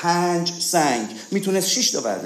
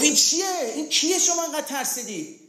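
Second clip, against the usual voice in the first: indignant question; 11 semitones higher than usual. Retold or imitated. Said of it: "گفت".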